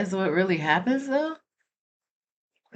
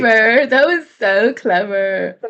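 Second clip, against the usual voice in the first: sarcastic; 4 semitones higher, 7 dB louder, slower than usual. Real, not acted. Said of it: "So now you trying to clown me?".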